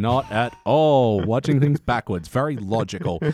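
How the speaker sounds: slow, dry and ironic; dry sarcastic agreement; deadpan sarcasm. Real, not acted. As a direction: play along with the joke, bone dry.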